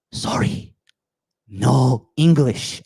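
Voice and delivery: slow, drawn-out apologetic brush-off; feigned incomprehension. Retold or imitated. Speaker fobbing off someone who talks to him, feigned incomprehension. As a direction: play the clueless foreigner, word by word.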